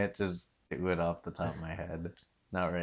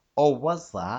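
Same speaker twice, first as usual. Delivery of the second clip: put-on Cockney, dropped T, much higher, louder; 8 semitones higher, 9 dB louder than usual. Coaching a friend on the accent, repeating the phrase in an attempted Cockney accent. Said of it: "You still got to stop like there is a T".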